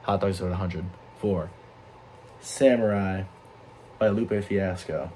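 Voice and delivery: slow, grave samurai voice. Acted. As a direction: intone the score like a samurai. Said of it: "That's me being a samurai".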